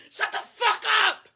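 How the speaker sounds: angry crying. Real, not acted. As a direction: snap it through tears. Crying rant against critics.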